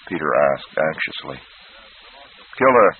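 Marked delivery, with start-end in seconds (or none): 2.6-2.9 briskly. Acted. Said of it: "the horse doctor said briskly".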